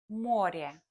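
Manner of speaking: море said MO-re, stress on the first o; stress on the first syllable. Shown as a demonstration. Teacher shows learners: море stressed first. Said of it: "For example".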